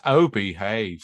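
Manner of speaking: Austin Powers. Retold or imitated. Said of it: "turn into, like, Austin Powers".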